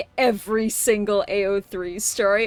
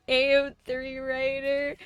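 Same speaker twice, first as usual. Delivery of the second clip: mock proud; 3 semitones higher than usual. Shown as a demonstration. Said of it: "I mean, I am an A O three writer".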